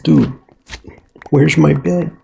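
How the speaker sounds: suddenly alarmed, calling out; real alarm. Real, not acted.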